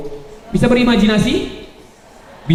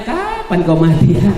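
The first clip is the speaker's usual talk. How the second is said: hypocrite's whisper; 3 semitones lower, slower than usual. Retold or imitated. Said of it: "Padahal pas saling nyiumnya".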